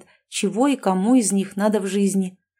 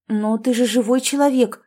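mild indignation, a bit higher; indignant; 3 semitones higher than usual. Acted. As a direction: protest with light outrage. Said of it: "возмутилась Олеся".

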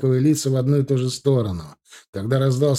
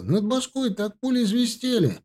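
much higher, breathless panic; panicked; 11 semitones higher than usual. A narrator's reading. Thug tells the others about the bullets, high and panicked. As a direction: voice a scared young thug.

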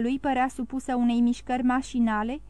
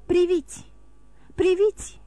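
higher, louder eager call; urgent exclamation; 6 semitones higher, 3 dB louder than usual. A narrator's reading. The count urges the two young men, excited and loud. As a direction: grab their attention, insistent.

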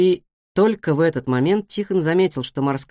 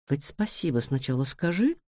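curt rebuke; 8 dB quieter than usual. A narrator's reading. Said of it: "отдёрнула её Нора".

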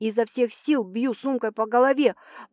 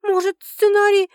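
high, timid suggestion; trembling voice; 8 semitones higher, 5 dB louder than usual. Acted. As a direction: offer it meekly, afraid. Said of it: "дрожащим голосом предлагаю я".

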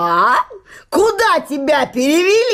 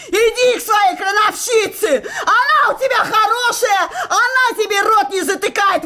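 mocking laugh; 3 semitones higher than usual. Wife mocking husband in quarrel.

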